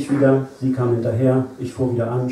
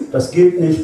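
complaining; 5 semitones higher, 6 dB louder than usual. A narrator's reading. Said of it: "beschwerte ich mich".

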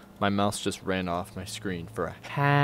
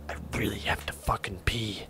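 hushed whisper while hiding; 6 dB quieter than usual. Real, not acted. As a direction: whisper so he can't hear. Hiding in a wardrobe.

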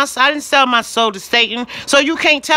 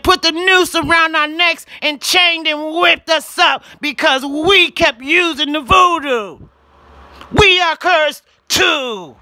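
preaching shout; 4 semitones higher than usual. Real, not acted. Preaching about the curse.

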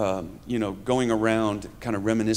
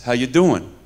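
louder Bronx-style greeting; New York accent, thrown out as a statement; 6 dB louder than usual. Shown as a demonstration. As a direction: demonstrate the Bronx catchphrase. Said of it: "And the next one is".

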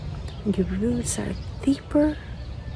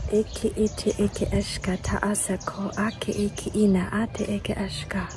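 whispered light language. Acted. Channelled light language chant.

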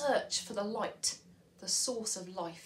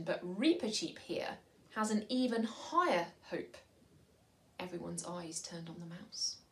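storybook narration with voices, pauses for effect; storybook reading aloud; reading to children. Acted. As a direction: read it like a bedtime story. Reads story section to children.

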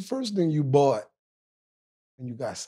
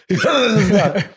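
laughing repeat; 4 semitones higher, 5 dB louder than usual. Real, not acted. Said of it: "repeats line laughing".

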